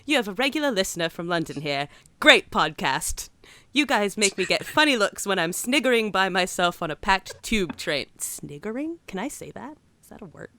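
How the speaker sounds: put-on, amateurish British accent; bad London accent. Podcast host reading a London listener's letter, bad London accent. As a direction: read it in a poor imitation of London English. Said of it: "talk in a bad accent".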